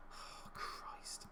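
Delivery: voiceless, breathed-out curse; whispered dismay; exasperated. Real, not acted. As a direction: sigh it out under your breath. Despairing reaction to the game.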